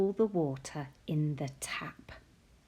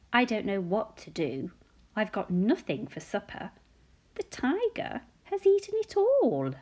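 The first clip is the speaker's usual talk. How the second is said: mock despair of a mother with an empty kitchen; lightly hammed-up worried mummy; Sophie's mummy; 3 semitones higher, 4 dB louder than usual. Mummy voiced reading picture book.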